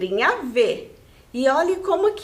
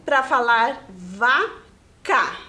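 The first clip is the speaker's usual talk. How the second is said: 1 slow and clear; much slower than usual. Shown as a demonstration. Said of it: "Presta atenção".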